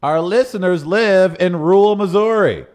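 loud, slow, mock-serious proclamation; hammed-up announcement. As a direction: deliver it like a grand pronouncement. Hammed-up reading of listener request.

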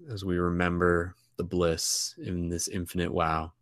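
calm rhyming meditation voice; guided meditation. Acted. Leads a closing meditation poem.

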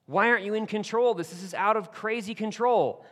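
anguished, begging questions rising in pitch; desperate plea to God. Acted. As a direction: cry out to God like a man at the end of his rope. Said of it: "he's asking God".

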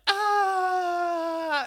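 long, high, loud mock scream; hammed-up sustained high shriek; flustered squeal. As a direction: hold a piercing anime-style squeal. Customer's flustered anime reaction imitated.

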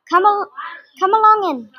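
kindly. A narrator's reading. Badger welcomes Rat and Mole in, kindly. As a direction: invite them in with kindness. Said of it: "Badger kindly".

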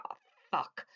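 under-the-breath, voiceless curse; retold whispered "oh no" reaction; hushed dismay. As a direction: let the curse escape as a whisper. Retold reaction on seeing cop cars.

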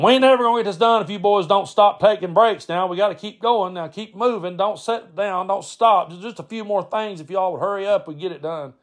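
high, running stream of nagging; nagging uncle Brad. Retold or imitated. Uncle pushing boys to keep packing, nagging. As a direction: imitate an uncle chivvying the workers along. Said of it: "so Brad's going".

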